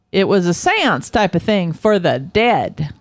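a hint of Southern accent for a quoted officer; attempted Philly accent drifting Southern; little Southern accent. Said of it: "I gave him a little accent".

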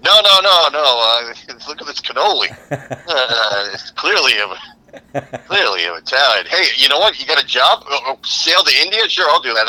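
a con man talking his way in; imitating Columbus.

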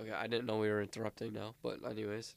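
quick passive-aggressive dig, lightly jokey. Real, not acted. Friend needling the one who interrupted his answer, passive aggressive. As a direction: toss it off fast, with a little sting. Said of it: "that was so passive aggressive".

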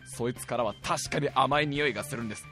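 quiet, low ant soldier report; a softly reverent little soldier; hushed ant soldier. Pretend. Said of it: "女王様". (女王様に報告する兵隊アリ、ひそひそ声で)

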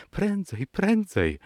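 very high-pitched urging, not really shouted; urgent cry. A narrator's reading. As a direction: cry it out high, volume held back. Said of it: "coraz głośniej krzyczała". (bardzo wysoki, ponaglający okrzyk)

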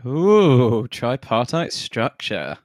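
slow mock-posh savouring of tripartite; lightly teasing, drawn-out tripartite. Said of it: "it's the English coming out".

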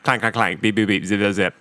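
low murmured robot noises. Shown as a demonstration. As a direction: mumble the beeps like a robot. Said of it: "help me out with the robot voice".

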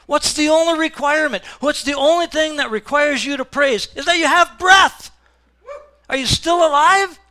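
high, loud rallying questions; preacher rousing a sleepy congregation, shouting; preaching shout. Real, not acted. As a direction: fire up the room.

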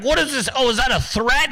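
high-pitched mock alarm; hammed-up, panicky whine; Stuart Varney whining. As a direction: imitate an old man fretting. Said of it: "crying about Trump holding a bat".

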